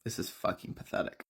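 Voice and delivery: muttered, unimpressed aside; dry, low-key contempt; deadpan disgust. Acted. Main character watching the two women, deadpan disgust. Unimpressed heroine mocks the wailing pair.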